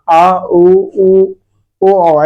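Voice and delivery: "आ, उ, उ, ओ, औ" sounded one by one, sinking back and down; back vowel demo. Shown as a demonstration. Teacher demonstrating back vowels to students, "आ, उ, उ, ओ, औ" sent downward. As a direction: let each of "आ, उ, उ, ओ, औ" drop down inside the mouth. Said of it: "ऐसा लग रहा है नीचे घुस जा रहा है".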